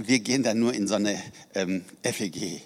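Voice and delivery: imitating a sheepish, apologetic admission; mock-embarrassed, trailing off at "F E G"; embarrassed mumble. Woman at a conference admits her church, embarrassed. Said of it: "wieso sagst du das so komisch".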